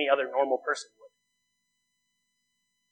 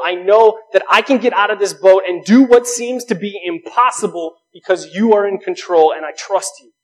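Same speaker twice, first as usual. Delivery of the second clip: earnest prayer; 2 semitones higher, 6 dB louder than usual. Retold or imitated. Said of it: "we can pray and say".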